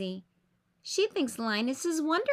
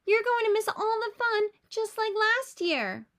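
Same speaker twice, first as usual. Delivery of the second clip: high, louder scolding big sister; bossy sister telling him off; 10 semitones higher, 4 dB louder than usual. A narrator's reading. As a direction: nag him loudly. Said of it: "Lucy yells at her brother".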